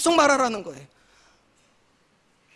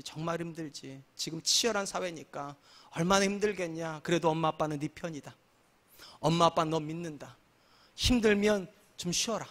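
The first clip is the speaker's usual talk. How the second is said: soft, gentle comforting father; tender parent; 5 semitones lower, 11 dB quieter than usual. Shown as a demonstration. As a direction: soothe a tired child softly. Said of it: "관용한 건 이런 거예요". (부드럽고 조용하게 다독이는 아빠 목소리)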